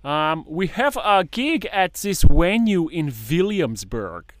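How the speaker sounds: high, loud mock German drum teacher; imitating drum teacher. Drum teacher nagging his student about paradiddles, high and loud. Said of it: "He sounds adorable".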